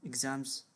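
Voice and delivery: "Exams" with the final s sounded; plural pronunciation. Shown as a demonstration. Teacher correcting a student's exam to plural, careful pronunciation. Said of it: "you focus on pronunciation".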